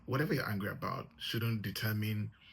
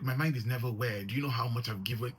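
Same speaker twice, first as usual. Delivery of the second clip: louder, indignant mock outburst; re-enacting the husband snapping back, hammed-up; retold flip-out; 4 dB louder than usual. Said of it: "He flips".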